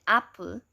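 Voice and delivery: apple with the first A strong and the second a schwa; stressed first syllable. Shown as a demonstration. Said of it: "A is the stress sound".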